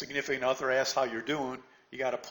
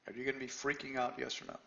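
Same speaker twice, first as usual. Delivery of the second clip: Are you gonna be freaking out asked again, softer; softer repeat; 7 dB quieter than usual. Real, not acted. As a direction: press the question quietly. Repeats the question to the room.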